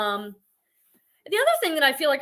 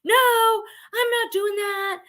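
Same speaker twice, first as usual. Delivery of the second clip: higher, slow, put-on defiant voice; imitating sellers who swear off live selling, in a higher, slower voice; mock stubborn refusal; 10 semitones higher, slower than usual. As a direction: play the reseller who flatly refuses to go live. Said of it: "where they're like".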